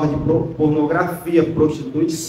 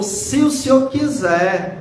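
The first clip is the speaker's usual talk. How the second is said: "se o Senhor quiser" raised high and drawn out; slow, higher-pitched stress on "se o Senhor quiser"; emphatic plea; 5 semitones higher, slower than usual. Acted. Leper surrendering to the Lord's will, "quiser" stretched emphatically.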